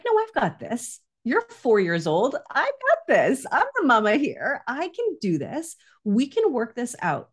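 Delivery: high, lifted voice of a mother finding her confidence; confident self-talk. Retold or imitated. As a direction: talk yourself up, bright and sure. Confident inner voice, retold.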